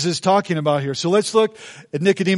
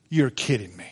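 Nick in disbelief; 8 semitones lower, 5 dB quieter than usual. Retold or imitated. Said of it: "And Nick is like this".

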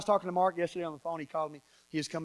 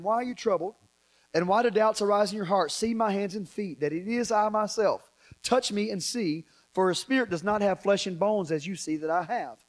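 measured, projected Bible reading; scripture reading; 2 semitones higher, 5 dB louder than usual. Real, not acted. Preacher reading the risen Jesus's appearance to congregation, scripture reading. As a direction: read it out to the whole room.

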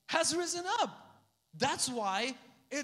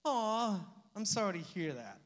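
a quick, lightly voiced "Aw" of sympathy; mock sympathy. Shown as a demonstration. Pastor mocking empty sympathy, lightly voiced. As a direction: brush it off with a polite "Aw, I'm sorry". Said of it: "sympathy is saying".

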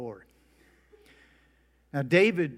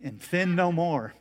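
a mock booming voice from heaven, louder; a hammed-up voice of God, pronounced louder; 3 semitones higher, 6 dB louder than usual. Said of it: "And a booming voice said".

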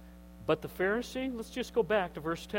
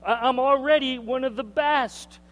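smug Pharisee; 5 semitones higher, 4 dB louder than usual. Retold or imitated. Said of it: "He didn't need God's grace".

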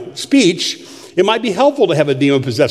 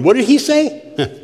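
put-on slow, higher-pitched old-timer's question; mock a puzzled old listener, drawn out; old person; 6 semitones higher, slower than usual. Preacher teasing the old people in the congregation, as a slow old-timer. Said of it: "all the old people are going".

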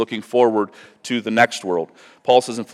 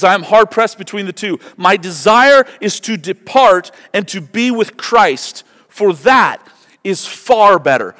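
higher, louder, slow and fervent; fervent preaching; 8 semitones higher, 6 dB louder, slower than usual. Acted. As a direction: lean in and long for heaven. Rereads Paul, slower, fuller.

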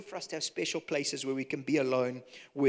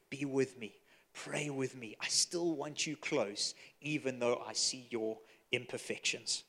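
softer, slow, gentle plea to stay close; tender plea; 4 dB quieter than usual. Acted. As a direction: ask a friend to stay, gently. Jesus tenderly asks disciples' closeness.

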